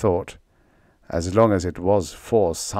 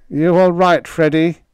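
shaky, worried, higher pitch; quavering voice; 8 semitones higher, 7 dB louder than usual. A narrator's reading. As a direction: ask with a nervous quaver. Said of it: "in a quavering voice".

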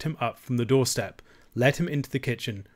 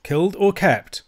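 "Killed or kept?" raised and firm; "Killed or kept?" put loudly, falling at the end; repeated insistently; 7 semitones higher, 5 dB louder than usual. A narrator's reading. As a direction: press both choices, "Killed" and "kept". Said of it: "repeated Allen".

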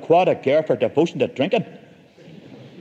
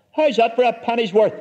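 higher mock taunting shout; triumphant shout; 7 semitones higher than usual. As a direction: crow it over the fallen officer. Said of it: "my Uncle Alec shouted".

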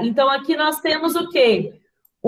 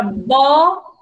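"boneca" in three beats with long gaps; split into syllables; slower than usual. Shown as a demonstration. Teacher introduces the next word, "boneca" slowly split by syllable. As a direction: stretch and separate "boneca" as bo, ne, ca. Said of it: "abre a boca pra separar".

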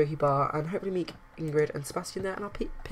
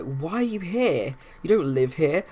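voicing a sim yelling, a bit louder; mock yell; 4 dB louder, slower than usual. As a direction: play the yell half-seriously. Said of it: "yell at him and just completely be like".

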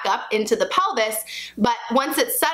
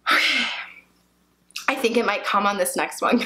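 normal talking voice

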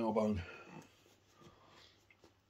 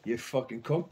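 louder, punchy mock insult; retold insult; 2 semitones higher, 7 dB louder, slower than usual. Fan retelling insult at the gig, loud mock anger. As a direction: spit it out loud and blunt. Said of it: "I goes".

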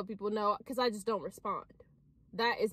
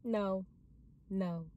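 smiling no; 5 semitones lower, 3 dB quieter than usual. Shown as a demonstration. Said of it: "with a smile on my face".

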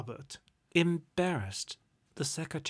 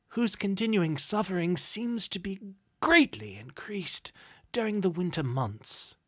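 higher-pitched, stammering start into formal appeal; earnest, obsequious petitioner; flustered gentleman; 5 semitones higher, 5 dB louder than usual. A narrator's reading. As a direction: plead politely and deferentially for charity. Gentleman makes his charity appeal.

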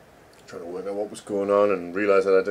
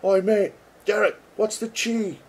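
high, hammed-up shout across the desk; mock call to a coworker; 11 semitones higher than usual. Asking coworker Derek across the desk, in a high mock call. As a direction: lean over and call out to a mate, much higher. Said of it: "I could lean over right now and go".

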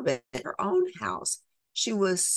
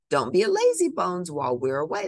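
bossy jeer; 5 semitones higher, 5 dB louder, faster than usual. Acted. Stepsisters bossing Cinderella before leaving.

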